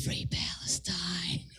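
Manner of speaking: slow low whispered line; a low breathy mock-sexy whisper; husky whisper. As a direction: lean in and whisper it slowly like dirty talk. Guy whispers dirty talk.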